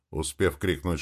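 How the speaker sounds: usual speaking voice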